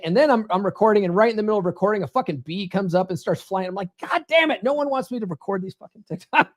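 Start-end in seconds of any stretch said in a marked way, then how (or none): 4.0-6.5 God damn it pitched much higher, fed up; bursting at the third interruption; exasperated outburst. Retold or imitated. Bee interrupts, third time.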